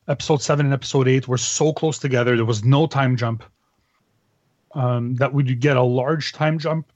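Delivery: talking while chewing broccoli; words round a mouthful of food; mouth full. Real, not acted. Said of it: "I'm choking on broccoli".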